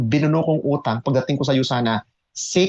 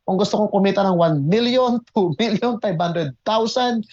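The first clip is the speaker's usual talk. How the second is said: excited inner voice; 3 semitones higher than usual. Retold or imitated. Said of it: "Sabi ko".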